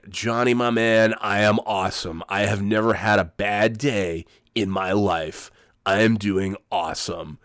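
a hint of the relentlessly upbeat salesman; Jim Rome-style bro. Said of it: "not doing a very good Jim Rome imitation".

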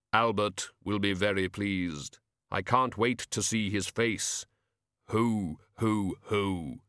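slow, measured Death with slow hoos; a hint of Death, ponderously pleased; lightly voiced Death, pleased. Death looks forward to seeing Albert's face, slow and lightly voiced.

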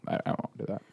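breathy whispered aside. Acted. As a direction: whisper it conspiratorially. Joking about unplugging mic.

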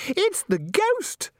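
very high, drawn-out shriek; high-pitched girlish squeal of fright; automatic shriek. A narrator's reading. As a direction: shriek it in melodramatic alarm. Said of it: "shrieked Christine automatically".

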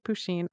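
"Pusheen" as poo-sheen, said softly; pronunciation query. Shown as a demonstration. Co-host repeating the pet name to check, "Pusheen" as poo-sheen. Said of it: "is that how we say it".

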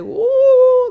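loud, high mock woo of shock; a loud, high teasing woo; relatives' woo. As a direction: hoot it like a shocked aunt. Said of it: "I swear it's like".

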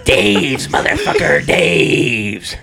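hammed-up parting threat, store name hit hard; imitated irate customer. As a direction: replay the customer's angry exit line. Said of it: "how I'm saying it is how he said it".

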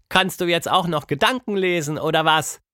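leicht höhere Mädchenstimme; ungläubig fragen; Tilda, verblüfft. A narrator's reading. (Tilda fragt verblüfft)

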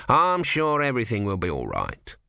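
put-on lightly reassuring old cleric; a touch of false comfort. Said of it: "he added".

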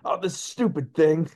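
mock exasperated grumbling; imitated frustration. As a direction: act mildly fed up with a useless gadget. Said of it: "gets frustrated, he's like".

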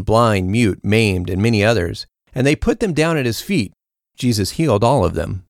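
measured, formal Bible reading; lightly voiced speakers within a steady reading; scripture reading. A narrator's reading. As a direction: read the Gospel clearly to the congregation. Reads the Gospel passage aloud.

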